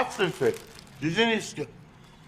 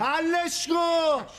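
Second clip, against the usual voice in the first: threat; 5 semitones higher, much slower than usual. Acted. Repeats the slow threat.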